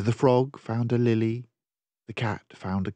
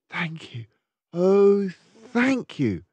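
grateful thanks; 7 semitones higher, 3 dB louder, slower than usual. Acted. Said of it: "the grateful witch cried".

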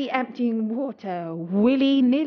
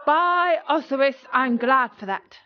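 relieved exclaim; 3 semitones higher, 6 dB louder than usual. Acted. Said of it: "mopping his brow with relief".

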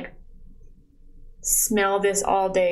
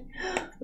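sharp gasp; 10 semitones higher, 12 dB quieter than usual. Real, not acted. Opening a gift box.

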